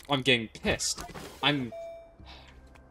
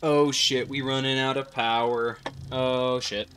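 panicked cursing; 3 dB louder than usual. Real, not acted. Power running out.

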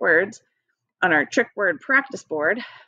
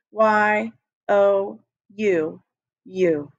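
Y O U spelled very slowly, letter by letter; slow spelling; much slower than usual. Shown as a demonstration. Teacher leading the class in slowly spelling you. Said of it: "Two fingers in front of you".

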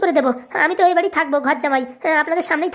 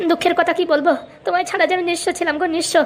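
hammed-up tearful reunion lament; 2 semitones higher than usual. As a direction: lament to a lover as if tearing up. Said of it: "এখন আর কান্না করো না". (কাঁদো কাঁদো গলায়)

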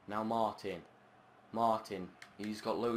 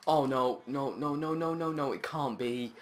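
despairing no; 4 semitones higher than usual. Real, not acted. Conceding a goal.

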